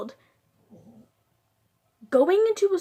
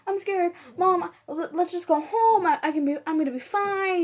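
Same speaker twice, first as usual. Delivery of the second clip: high, fast, mock-tearful pleading; mock bawling plea; 5 semitones higher, faster than usual. Scared eleven-year-old begging mom before surgery, mock tearful. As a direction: replay a scared kid begging, half-hearted sobbing. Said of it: "I was bawling".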